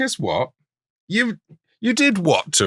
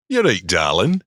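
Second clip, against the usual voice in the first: same Yorkshire voice again; a hint of Yorkshire, unchanged; light Yorkshire accent. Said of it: "It's the same accent".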